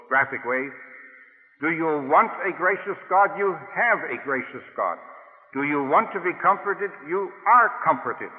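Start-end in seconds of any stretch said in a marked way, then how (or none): 1.6-8.3 fervent proclamation. Real, not acted. Preacher rising to proclamation.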